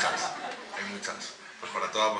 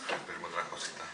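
softer, teasing offer; playful "that voice"; 2 semitones lower, 6 dB quieter than usual. Pretend. Poet teases the audience about other requests, playful soft voice. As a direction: repeat the offer more softly, playing up the voice. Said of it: "Y con esa voz también".

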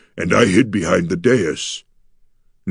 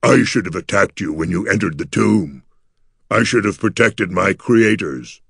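mournful creature lament, often slowed; gargoyle near sobbing. A narrator's reading. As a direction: lament heavily in the monster's voice, with only a touch of a sob. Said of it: "The gargoyle's voice turned into a sob".

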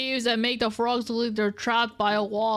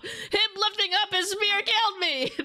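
whisper; 10 semitones higher than usual. Real, not acted. Stunned after dying.

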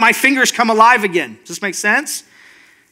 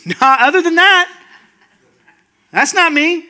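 higher, half-laughed brush-off; laughing refusal; 6 semitones higher than usual. Acted. Helper refusing to let others serve him, laughing it off. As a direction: wave it away with a laugh.

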